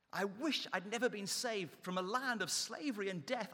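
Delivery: the same complaint pushed harder, rising on never; building mock moan. Preacher voicing Israelites' complaint, building mock moan. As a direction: let the whining swell as it repeats. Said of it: "three times they're saying".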